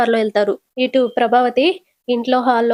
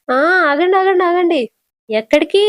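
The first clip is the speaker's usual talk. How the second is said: higher-pitched, hurried call to stop; urgent halting; 6 semitones higher than usual. Acted. Mother-in-law stops the couple leaving, urgent. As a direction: halt them before they get away.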